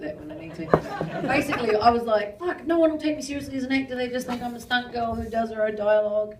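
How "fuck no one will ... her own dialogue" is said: higher-pitched, hurried worrying; retold fretting. Stunt woman fretting about being taken seriously, exasperated. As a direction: rattle off the self-doubt in mock distress. Voices her past self-doubt.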